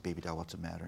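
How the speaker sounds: soft, low comforting voice; low and hushed fatherly concern; tender dad. Retold or imitated. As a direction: gently coax an upset child, softly. Dad comforting his crying daughter.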